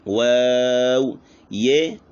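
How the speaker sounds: slow rounded waw; drawn-out waw. Shown as a demonstration. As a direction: stretch the waw with rounded lips. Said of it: "वाव और पेश".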